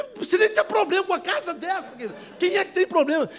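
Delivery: high, loud, laughing scoff; laughing disbelief. Retold or imitated. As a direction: laugh off his problems. Laughing at rich man's problems.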